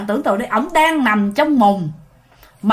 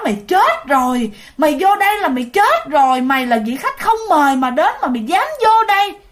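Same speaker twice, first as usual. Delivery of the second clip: menacing ghost; 4 semitones higher than usual. Retold or imitated. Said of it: "cười những cái tràng cười kinh dị, nói".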